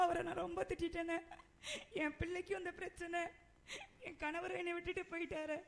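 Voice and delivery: crying through the words; acted crying. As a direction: wail over the lost husband, sobbing. Widow learns husband died.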